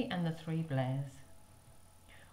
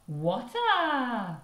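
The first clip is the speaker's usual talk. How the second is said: put-on high, louder toddler cry; shout; 7 semitones higher, 5 dB louder than usual. Baby shouting about the water, high toddler yell. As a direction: call out like a little child. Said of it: "shouted Baby Blair".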